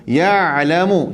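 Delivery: Ya'lamu drawn out very slowly, the ain sounded from the throat; Ya'lamu, slow, with a clear throat ain; Arabic ain in ya'lamu. Shown as a demonstration. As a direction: stretch Ya'lamu slowly with a true Arabic ain, not nasal. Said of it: "pastikan ain tu bunyi Arab sikit".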